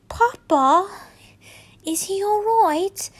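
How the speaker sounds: high, teary plea to her father; teary child. Acted. Daughter asking about her papa, high and teary. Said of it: "a teary-eyed Carmen asked".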